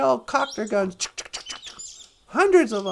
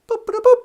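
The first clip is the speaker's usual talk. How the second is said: high, loud vocal boops; quick electronic chirps done by mouth; imitated computer boops; 10 semitones higher, 8 dB louder than usual. Computer answering a holodeck visitor, booping.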